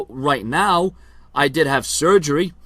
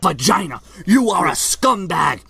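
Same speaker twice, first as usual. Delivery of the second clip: wrestling promo. Acted. Vlogger taunting his rival Brian in wrestler promo style. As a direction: cut a promo like a heel wrestler.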